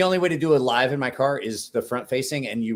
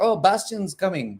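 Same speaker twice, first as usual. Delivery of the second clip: Nicholas impression; 6 semitones higher than usual. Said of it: "my Nicholas from Bastinelli Knives impersonation".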